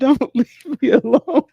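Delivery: high, loud, slow whiny plea; hammed-up little girl begging; mock clingy plea. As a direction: stretch it out like a pleading kid. Mocking daughter's plea again.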